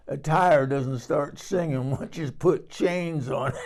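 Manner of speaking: slow punchline bubbling over with laughs; cracking up. Retold or imitated. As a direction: deliver the joke while breaking into laughter. Retells joke that cracked her up.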